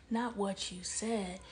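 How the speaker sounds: slow, not hit hard, falling; slow down and land on not; stress on not. Shown as a demonstration. Correcting a listener's mistake, slowly stressing not. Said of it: "That's why you said what you said".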